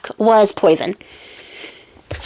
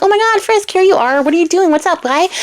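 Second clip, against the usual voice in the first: much higher cooing pet voice; talking to a dog; 9 semitones higher than usual. Retold or imitated. Queen to little dog at her feet, high cooing. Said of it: "she's like".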